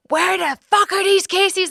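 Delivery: high, slow exasperated outburst; mock furious demand; furious texted rant. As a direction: spit it out like you're at the end of your rope. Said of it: "texting them like that".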